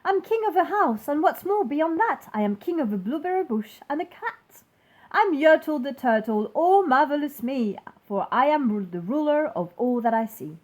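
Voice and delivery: high, loud gloating; king boasting from his throne; proud boasting king. Acted. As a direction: crow about everything you own. King boasting atop turtle stack.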